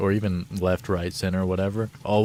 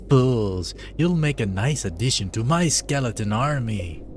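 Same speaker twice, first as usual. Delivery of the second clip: lightly voiced gloating dreadlord; a hint of a cartoon boss; villain voice. Gamer voicing Zarth threatening the party, lightly gloating. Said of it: "what accent I'm giving him".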